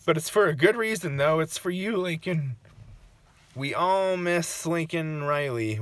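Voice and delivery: speaking to the departed while crying. Real, not acted. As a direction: push the words out through real tears. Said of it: "right now when I'm crying".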